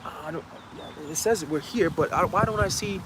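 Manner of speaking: soft, hesitant, trailing confusion; puzzled muttering. Acted. Searchers failing to find the door, puzzled muttering. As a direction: think aloud quietly, unsure of the place.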